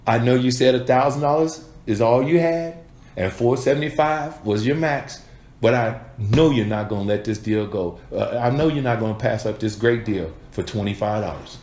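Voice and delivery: laughing, cocky, sure of the sale; confident close. Shown as a demonstration. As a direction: tease them into signing. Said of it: "prove to 'em".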